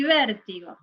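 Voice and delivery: VÉRTIGO said whole, leaning on ver; stress on first syllable. Shown as a demonstration. Teacher testing a word's stress, VÉRTIGO stressed on ver. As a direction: let the weight fall on the VÉR of VÉRTIGO. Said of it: "La sílaba tónica es ver".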